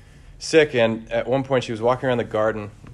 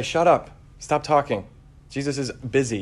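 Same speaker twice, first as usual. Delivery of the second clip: higher-pitched impatient shushing, lightly acted; acted crowd scolding; 4 semitones higher than usual. Crowd hushes a shouting beggar, mock impatient scolding. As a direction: shush a pest, voice raised in pitch.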